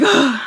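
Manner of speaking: loud, high startled gasp; sharp intake acting out getting scared. Teller showing her fear of being hurt, loud gasp. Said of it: "getting scared".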